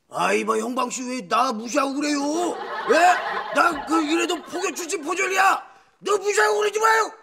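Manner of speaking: whine, then yell that you were a detective once; Officer Oh complaining to the clerk, rising to a shout; Officer Oh impression. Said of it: "너 또 해봐".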